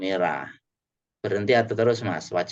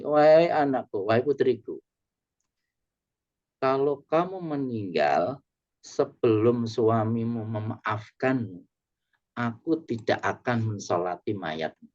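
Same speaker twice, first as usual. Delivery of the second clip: solemn father; 3 semitones higher than usual. Acted. Voicing the Prophet's stern answer.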